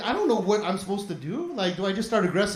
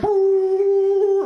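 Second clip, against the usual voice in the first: mock shout; 8 semitones higher, 6 dB louder than usual. She shouts in his ear.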